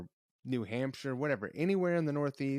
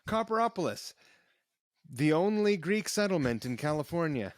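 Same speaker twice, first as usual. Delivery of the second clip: higher, grand announcer pitch for the town; mock tourism announcer; 3 semitones higher, 4 dB louder than usual. Joking mock town tagline.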